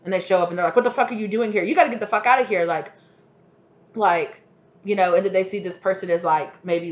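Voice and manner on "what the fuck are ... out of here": higher, louder and fast, ordering someone out; hammed-up furious eviction; mock angry yell. Throwing the intruder out.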